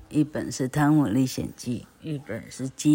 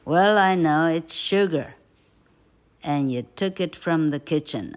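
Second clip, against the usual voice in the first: accusing; 2 semitones higher, 5 dB louder than usual. Acted. Aunt accusing boy.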